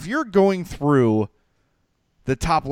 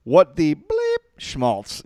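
slow, high-pitched reading of an angry text; mock outrage; 6 semitones higher, 4 dB louder, slower than usual. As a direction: hammer out the complaint with exaggerated exasperation. Acting out friend's outraged text.

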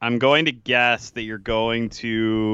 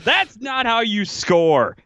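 high, drawn-out mock outrage; slow, high-pitched exasperation; exasperated complaint; 10 semitones higher, slower than usual. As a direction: imitate a fan griping at a player. Acted complaint at hockey player.

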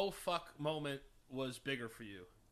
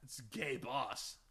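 very slow, lower, drawn-out delivery; 4 semitones lower, 5 dB quieter, much slower than usual. Pretend. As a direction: stretch every word out lazily. Repeats slower and lower.

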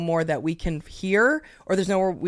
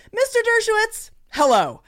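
high, sing-song formal call; mock formal address; 13 semitones higher than usual. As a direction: call the name out grandly. Judge calls the defendant.

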